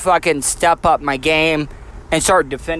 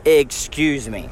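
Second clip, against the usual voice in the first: sarcastic excuse me; 4 semitones lower, slower than usual. Retold or imitated. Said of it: "on how you say".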